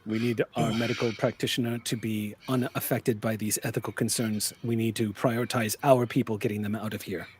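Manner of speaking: soft, measured justification; lightly voiced cool, matter-of-fact leader; composed leader. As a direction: explain it quietly, without emotion. Plays composed Nakamura.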